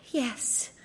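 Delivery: high, soft princess voice; a shy, quiet princess yes; cartoon princess.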